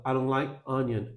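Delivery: 'I don't like onion' with 'I' reduced to 'ah'; reduced pronoun. Shown as a demonstration. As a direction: weaken the 'I' in 'I don't like onion' to a plain 'a'. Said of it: "O I vira um A". ('I don't like onion' com o 'I' virando 'a')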